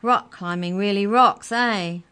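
loud, high call across the room; yelled. A narrator's reading. Teacher yelling to the class, loud and bright. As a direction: shout it out cheerfully to the class. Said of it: "Then she yelled".

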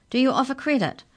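high, cautious question. A narrator's reading. Hungry Mallory asks about paying later, cautious. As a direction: venture it carefully, pitched high. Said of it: "she asked cautiously".

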